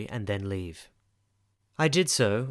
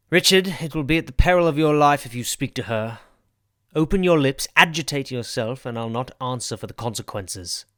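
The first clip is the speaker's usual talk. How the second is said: stern threat; 4 dB louder than usual. Acted. Rochester threatens the wounded man.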